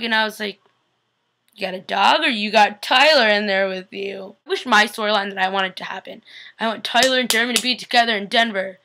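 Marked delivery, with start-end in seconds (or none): 1.5-4.4 teasing. Real, not acted. Teasing suspicion about Tyler.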